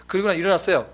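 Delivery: ordinary talk, nothing marked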